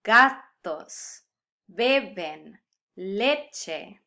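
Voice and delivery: GA-tos, BE-ben, LE-che, first syllable punched; stress on second-to-last syllable. Shown as a demonstration. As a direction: punch the openings of "Gatos, beben, leche", one word at a time. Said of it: "stress belongs on the second to last syllable".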